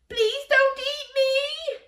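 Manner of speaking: high, slow pleading cry; Jack crying out. A narrator's reading. Jack begging the giant in fear. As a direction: beg the giant not to eat him. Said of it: "cried Jack".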